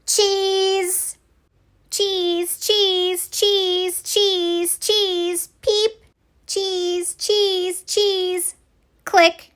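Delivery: high squeaky little creatures; tiny puff voices. Acted. Puffs greeting Betty with high squeaky wows. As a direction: chirp wow like tiny fluffy puffs.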